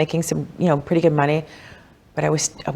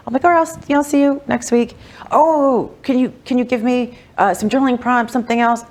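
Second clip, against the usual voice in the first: high, pleading client asking for more; whiny client; 8 semitones higher than usual. Retold or imitated. Imitating a needy client who stretches her session, high and pleading. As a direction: beg for one more thing in a high voice. Client begging for extra time.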